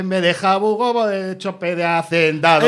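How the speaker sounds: slow, slurred mock mumble; lightly voiced drunken mumbling; slurred comic mumble. Singer slurring his song into the mic, slurred mumble. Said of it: "yo decía".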